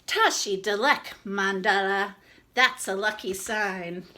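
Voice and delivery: put-on old shopkeeper. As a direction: say it kindly as the old lady. Old shopkeeper character speaks.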